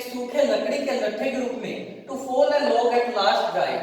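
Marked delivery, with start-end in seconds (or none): 2.1-3.7 reads the line very slowly, word by word; slow reading. Shown as a demonstration. Teacher reads poem line slowly to class. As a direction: spell the line out slowly for students. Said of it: "teacher reading poem line slowly".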